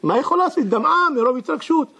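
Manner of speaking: a widow thanking God, thrilled by the free repair; excited widow. Acted. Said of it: "כולה מרוגשת".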